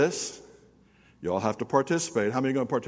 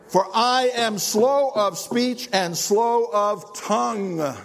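slow, halting reading; 8 semitones higher, much slower than usual. Acted. Reading Moses' excuse slowly.

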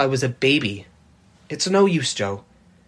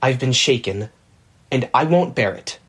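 lower, a mild indignant growl; 6 semitones lower than usual. A narrator's reading. Laurie complaining to Jo, mildly growled. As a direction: grumble about the insult. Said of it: "growled Laurie indignantly".

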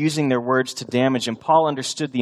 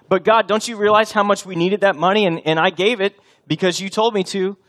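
pleading churchgoer; 6 semitones higher, 3 dB louder than usual. Acted.

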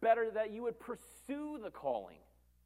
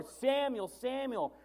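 Samuel called out a bit higher and louder; calling out; 3 semitones higher, 3 dB louder, much slower than usual. Acted. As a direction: call the name clearly across the room.

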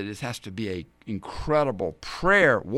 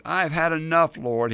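lightly whined, higher and louder at the start; mock whining; 4 semitones higher, 4 dB louder than usual. Great man of faith praying to die, mildly whining. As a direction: complain to God in a put-on whine. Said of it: "he whined".

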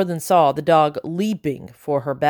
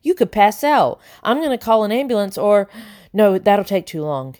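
babbling; 2 semitones higher than usual. Acted. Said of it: "he babbled".

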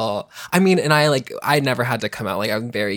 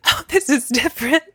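high-pitched, amused mock revelation; mock surprised realization; 4 dB louder than usual. Recalling kissing a boy for the first time, mock surprised. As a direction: act out a startled discovery, much higher.

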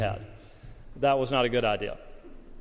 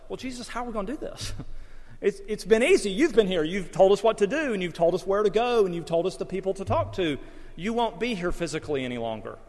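worried disciples; 5 semitones higher than usual. Retold or imitated. Disciples voiced asking Jesus.

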